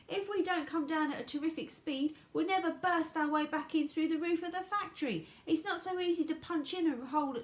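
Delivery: high, loud, eccentric showman; high eccentric Wonka. A narrator's reading.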